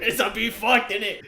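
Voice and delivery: high-pitched mock British accent. Mocking how British people talk, in a British accent. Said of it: "British people talk so weird".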